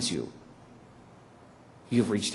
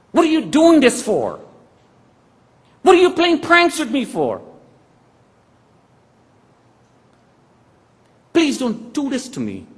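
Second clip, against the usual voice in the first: high, loud, desperate pleading; frantic pleading; 13 dB louder than usual. Retold or imitated. Retold phone call, frantic loud pleading. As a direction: beg them to stop, voice straining.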